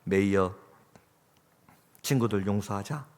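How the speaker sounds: gently measured, with long pauses; healing, tender. Acted. Mother heals her son's heart after the echoes, tender. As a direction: soothe a hurt child quietly. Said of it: "마음을 치료하며 말합니다".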